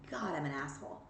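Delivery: quiet, low admission; softly admitting fault to yourself; mock confession. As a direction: own it under your breath. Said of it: "and say".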